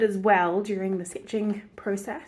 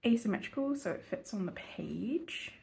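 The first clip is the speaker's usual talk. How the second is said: whispering; 7 dB quieter than usual. Real, not acted. Quietly drawing, trailing off.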